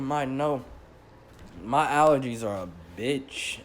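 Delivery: blocked nose, sniffling; stuffy nose. Real, not acted. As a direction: talk through a stuffed-up nose. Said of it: "sorry about my nose".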